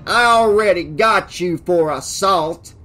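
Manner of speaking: loud, angry sheriff; irate lawman shouting a threat; raging. A narrator's reading. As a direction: rage at him at full voice. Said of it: "Hoyt raged".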